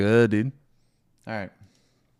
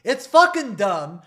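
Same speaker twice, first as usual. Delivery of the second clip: loud, slow, heated complaining; griping loudly about the damage gap; loud angry rant; 4 semitones lower, 12 dB louder than usual. Real, not acted. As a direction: hammer each complaint home.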